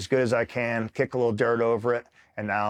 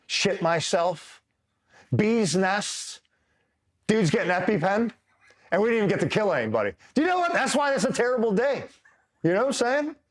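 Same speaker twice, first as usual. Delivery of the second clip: high-pitched, about to crack up; real laughter rising into the voice; barely holding back laughter; 10 semitones higher than usual. Real, not acted. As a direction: squeal it out, close to losing it. Cracking up over his terrible day.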